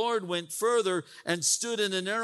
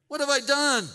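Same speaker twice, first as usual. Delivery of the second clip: higher and louder, "What have I done?" with stress on I; donkey protest; 8 semitones higher, 6 dB louder than usual. Acted. Donkey protests to Balaam, high and loud. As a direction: cry it out, stung and baffled.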